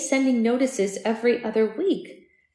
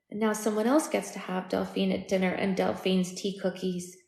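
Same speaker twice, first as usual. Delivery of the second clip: petulant; 5 dB quieter than usual. Acted. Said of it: "she sounded petulant".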